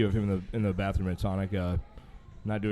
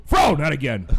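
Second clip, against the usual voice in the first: exasperated call; 3 semitones higher, 5 dB louder than usual. Retold or imitated. Exasperated bartender.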